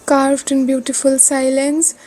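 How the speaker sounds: measured, deliberate poetry reading; poem recitation. Acted. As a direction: recite your own poem phrase by phrase. Recites her own poem.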